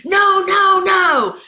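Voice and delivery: high, loud sideline shout; screaming coach. Retold or imitated. Coach to a player mid-shot, screamed in alarm. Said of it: "your coach on the sideline screams".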